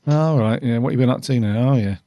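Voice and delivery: mildly imitated offhand attitude; a bit of attitude. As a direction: play someone casually unimpressed, with light attitude. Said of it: "there's a bit of attitude".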